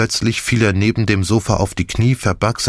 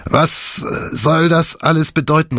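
high-pitched, agitated demand; alarmed exclamation; 10 semitones higher than usual. A narrator's reading. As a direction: burst in demanding an explanation. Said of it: "rief er".

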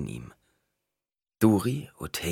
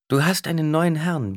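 much higher, louder woman's voice; Duri's voice; 11 semitones higher, 5 dB louder than usual. A narrator's reading. Duri tells Bias he has a new master, higher voice. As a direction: tell the dwarf gravely.

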